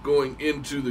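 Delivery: words through a burp; burping while talking. Real, not acted. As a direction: talk while holding down a burp. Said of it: "I'm burping while I'm talking".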